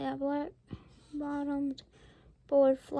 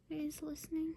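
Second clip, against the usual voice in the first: hushed unvoiced whisper; 7 dB quieter than usual. Real, not acted. Showing the child the page, whispering. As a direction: breathe it like a secret. Whispered aside over the picture.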